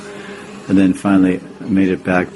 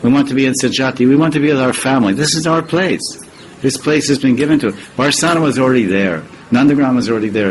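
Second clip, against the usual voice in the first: fervent; 4 semitones higher, faster than usual. Real, not acted. Fervent lecture climax.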